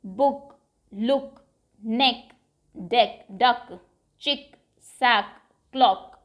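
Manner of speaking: each word spoken on its own, final क clear; a teacher modelling words for pupils to repeat; repeat demo. Shown as a demonstration. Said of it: "अब इन्हें आप repeat करिए".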